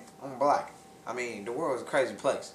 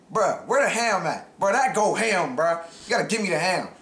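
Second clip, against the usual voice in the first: indignant complaint; 3 semitones higher, 3 dB louder than usual. Retold or imitated. At the drive-thru window, demanding ham, indignant. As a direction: demand the ham like you've been cheated.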